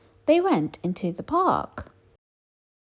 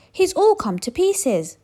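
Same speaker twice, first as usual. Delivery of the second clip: higher, slow dismayed voice; dismayed skeleton; 12 semitones higher, 5 dB louder than usual. A narrator's reading. Big skeleton mourns the fallen dog, high and slow. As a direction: lament the broken dog. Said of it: "the big skeleton said".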